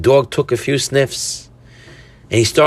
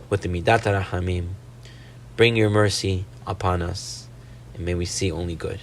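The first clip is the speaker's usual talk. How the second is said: softer, lower, pleading blessing; closing prayer; 4 semitones lower, 6 dB quieter than usual. Real, not acted. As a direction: wind down into a quiet, measured prayer.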